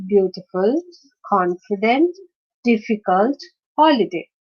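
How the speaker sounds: "Beautiful", "confident", "difficult", "holiday" each stressed on the first syllable; a spaced list, hitting the start of "Beautiful", "confident", "difficult", "holiday". Shown as a demonstration. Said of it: "stress is on the first syllable".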